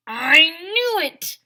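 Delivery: high excited shout. A narrator's reading. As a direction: yell it out in triumph.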